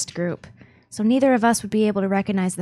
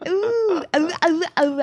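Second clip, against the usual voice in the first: high pained ow ow ow; wincing at a sore elbow; 7 semitones higher than usual. Real, not acted. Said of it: "it feels so weird".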